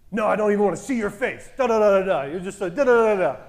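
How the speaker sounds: quick, mocking imitation of an irate ex; mock angry rant. Ex refusing to meet by text, mock-angry. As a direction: rattle off the telling-off, trailing into nonsense syllables.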